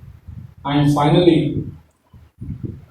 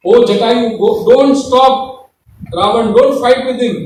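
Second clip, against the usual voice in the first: anxious plea; 6 semitones higher, 4 dB louder than usual. Acted. Sita begging Jatayu not to fight Ravana, high. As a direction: beg the old bird to stay out of it.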